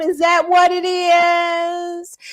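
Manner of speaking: slow, drawn-out taunting yell; mocking shout. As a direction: call it out slowly to shame him. Loud mocking question.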